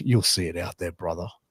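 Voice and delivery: self-satisfied, knowing, really smug tone. Retelling a top star's backstage answer about his finish: imitating a smug reply. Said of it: "Like, really smug".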